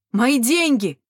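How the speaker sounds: high, loud desperate cry; shout. A narrator's reading. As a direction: yell it after your lost money. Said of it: "кричал он". (отчаянный крик)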